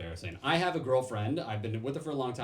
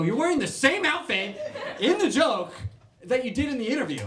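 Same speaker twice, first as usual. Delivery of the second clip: much higher, louder disbelieving voice; incredulous recruiter; 12 semitones higher, 7 dB louder than usual. Retold or imitated. Recruiter pointing out the same outfit, high incredulous voice. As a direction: squeal it like you caught him red-handed.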